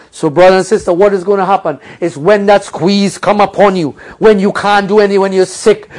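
ordinary delivery

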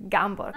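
Gamburg said with a hard g in place of h; Russian pronunciation. Shown as a demonstration. Teacher shows viewers how Russians say Hamburg. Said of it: "in Russian we pronounced it".

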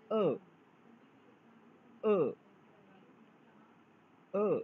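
अ sharply falling from high; Chinese fourth tone. Shown as a demonstration. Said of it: "ए की pronunciation हो जाएगी".

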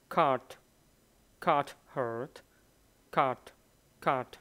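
Cart said with a clipped final t; teacher drilling Cart with its final t; final t sound. Shown as a demonstration. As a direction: drill Cart, stopping hard on the t. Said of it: "cái âm t, t".

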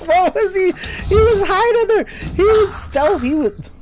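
high loud ranting; agitated outburst. Real, not acted. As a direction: spill it out in outrage. Ranting after being caught.

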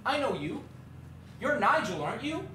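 imitated posh little kid. Man mimics kid approaching him, posh little voice. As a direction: put on a small posh voice. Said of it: "this posh little voice".

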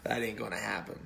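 backing away from the call in mock alarm; startled Gideon protest. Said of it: "And Gideon's like".

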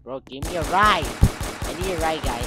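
loud, urgent shout for a lift; calling out. Real, not acted. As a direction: holler after a passing driver. Calling out for a ride.

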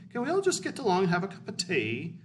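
high, quick caricature of the British; mock British peacemaker. British pleading with the squabbling European countries, high mock peacemaker voice. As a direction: pitch it up in a hurried mock plea. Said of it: "And the British are like".

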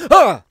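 loud sudden shout of fright; jump-scare shout as the monster appears; startled yell. Acted. Batman bursts from corpse.

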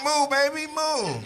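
high, loud mock moo; hammed-up high mooing; mooing at the cow. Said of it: "I was like".

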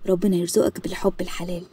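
soft whispered prayer for her son; whispered blessing. Acted. Mother whispering a blessing to her son, hushed. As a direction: breathe the blessing out gently.

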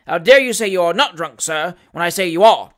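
loud, indignant magistrate; forceful, affronted scolding; outraged rebuke. Acted. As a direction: berate him for daring to contradict. Irate magistrate berates accused man.

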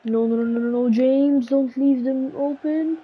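frustrated gamer shouting at the TV; exasperated yelling. Real, not acted. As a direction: beg the player to stop. Yelling at defender on screen.

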